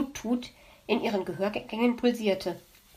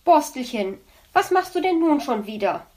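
calling out; 4 semitones higher, 5 dB louder than usual. Acted. Mother calls to child.

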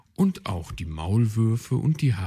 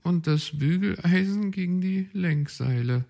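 astonished; 10 semitones higher, 4 dB louder than usual. Acted. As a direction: gasp out your disbelief, high. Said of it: "staunte Willi Kautz".

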